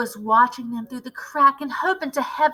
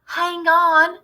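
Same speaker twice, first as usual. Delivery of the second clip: high urgent call; crying out; 6 semitones higher, 4 dB louder than usual. Acted. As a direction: call out to stop everyone. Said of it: "cried the witch called Mildred".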